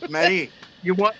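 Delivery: light mock Scottish accent. Teasing friends with gob slang, Scottish accent. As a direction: put on a Scottish burr. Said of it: "that's like Scottish".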